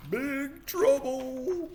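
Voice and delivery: very high, slow drawn-out warning; teasing warning. Acted. Reader echoing little sister's warning to brother, teasing. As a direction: stretch it out high like a taunt.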